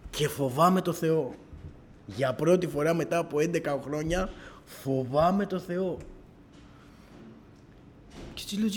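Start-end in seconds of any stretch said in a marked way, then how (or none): 0.1-6.0 slow solemn emphasis. Real, not acted. Solemn confession of fearing God.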